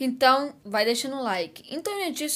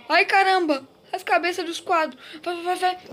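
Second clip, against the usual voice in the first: panicked; 6 semitones higher than usual. Real, not acted. Chased near exit in game.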